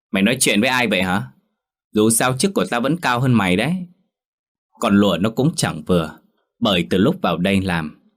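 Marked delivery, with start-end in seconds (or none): 0.1-3.7 quick, arrogant put-down of a servant; bossy mistress snapping at the maid; haughty retort. Acted. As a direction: talk down to her, a touch fast. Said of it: "đưa cặp mắt hách dịch nhìn lụa nói".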